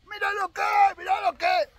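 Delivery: loud, high excited yell of a fisherman; imitated shout. Fisherman shouting over a hooked fish, loud imitated yell. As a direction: bellow it like a show-off angler with a fish hooked. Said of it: "Perdonen los gritos".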